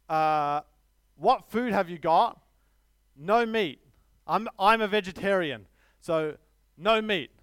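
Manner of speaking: put-on light Chinese accent for the customer; a hint of a Chinese accent. Friend asking street vendor for food, light Chinese accent. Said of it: "if I do a Chinese accent".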